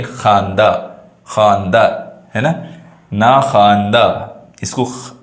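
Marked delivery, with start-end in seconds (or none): 0.0-0.7 ख़ानदा said as "khaan-da", no w; silent waw. Shown as a demonstration. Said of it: "वाव की आवाज़ नहीं आती है". 1.3-1.8 ख़ानदा repeated as "khaan-da"; long aa right after kh in ख़ानदा; silent waw. Shown as a demonstration. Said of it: "इसको पढ़ेंगे ख़ानदा". 3.1-4.1 ना ख़ानदा said as "naa khaan-da"; silent waw. Shown as a demonstration. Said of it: "वाव की आवाज़ नहीं आती है".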